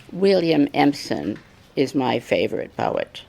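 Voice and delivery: imitated British accent through clenched teeth; tight-jawed mock British, barely containing anger. Angry Sylvia Plath answering her teacher, clenched-teeth British accent. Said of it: "through these clenched teeth, in this kind of British accent".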